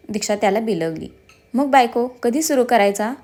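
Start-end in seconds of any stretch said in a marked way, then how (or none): 1.5-3.1 mischievous tone. Acted. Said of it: "खटाळ आवाजात विचारलं".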